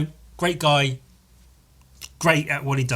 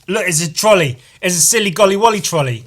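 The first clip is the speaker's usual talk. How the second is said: louder, higher mock British; silly Brit voice; 6 semitones higher, 9 dB louder, faster than usual. Mocking British speech, mildly higher and louder. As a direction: ham up the British word. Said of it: "gonna make me sit here and go".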